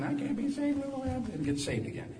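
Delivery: high-pitched mock doubter; doubting churchgoer.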